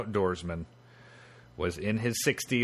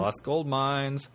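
slow, drawn-out prospector voice; 3 semitones higher, much slower than usual. Acted. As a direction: savor the words like an old prospector. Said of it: "like a prospector voice?".

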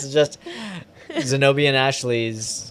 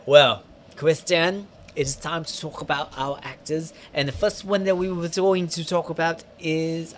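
lightly hammed-up impression with soft r's; Toulouse; 2 semitones higher, 4 dB quieter than usual. Host introducing the actors as Toulouse, lisping put-on voice. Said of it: "how about I just do Toulouse".

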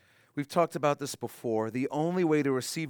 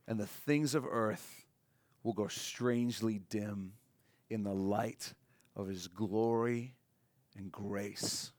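tender hymn words; 3 semitones lower, 5 dB quieter, slower than usual. Acted. Quoting a hymn's words softly.

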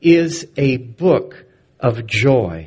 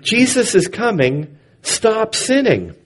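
muttering street prophet; 8 semitones higher than usual. A narrator's reading. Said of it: "muttered the street prophet".

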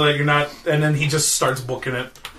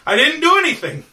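raised-pitch nervous reassurance; frightened pleading, acted; 5 semitones higher than usual. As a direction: beg an armed stranger to wait. Wizard begs with knife at knee.

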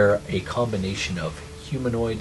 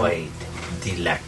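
watery creature voice; 4 semitones lower, 6 dB quieter, faster than usual. Acted. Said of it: "watery voice".

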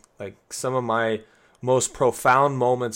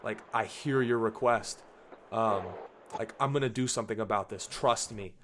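gently reassuring, a little softer; tender God; 5 dB quieter than usual. Retold or imitated. God comforting a frustrated believer, softly reassuring. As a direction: speak as a loving father comforting. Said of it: "He's like".

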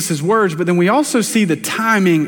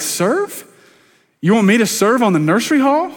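indignant disbelief. Pretend. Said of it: "our flesh hears that".

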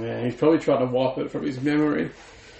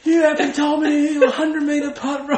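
laughing; 12 semitones higher, 4 dB louder than usual. Retold or imitated. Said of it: "He's like".

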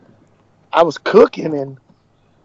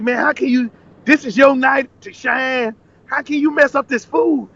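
higher-pitched mock telling-off; retold scolding; 5 semitones higher than usual. Manager berating cook over messed-up food, scolding. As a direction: imitate a manager's reproach, raised in pitch. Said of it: "why is he talking bad to me".

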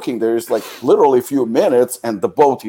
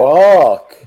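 loud, high, drawn-out swear; real outburst of disbelief; shocked exclamation; 5 semitones higher, 8 dB louder than usual. Real, not acted. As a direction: react aghast at the price. Listener reacts to forty euro price.

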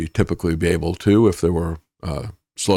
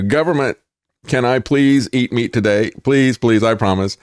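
mock pleading; 2 semitones higher than usual. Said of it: "That's their attitude".

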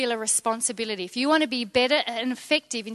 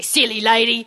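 put-on child's voice; 3 semitones lower, 5 dB louder than usual. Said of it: "my three-year-old say".

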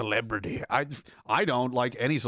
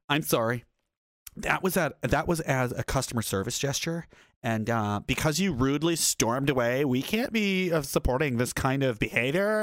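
imitating airline clerk. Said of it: "he definitely seriously talks like this".

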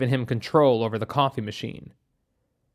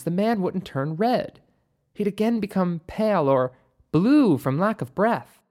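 slightly higher voice, thoughtful explanation; a hint of a higher-voiced expert; lightly voiced doctor; 4 semitones higher than usual. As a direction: reason it through as a doctor, pitched up a little. Narrator voices doctor in dialogue.

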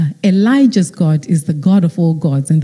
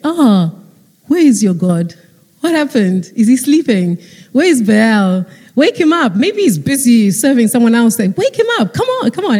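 taunting; 3 semitones higher than usual. Retold or imitated. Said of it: "Elijah started taunting them".

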